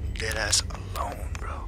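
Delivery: unvoiced whisper of fear; frightened whisper. Real, not acted. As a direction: hush it, scared someone hears. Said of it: "I'm terrified right now".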